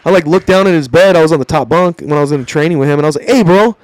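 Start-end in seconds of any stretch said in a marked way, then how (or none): 3.3-3.8 high, raised-voice protest, easing toward the end; retold annoyed telling-off. Trainee on top bunk objecting to porn, annoyed. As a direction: act out scolding a bunkmate.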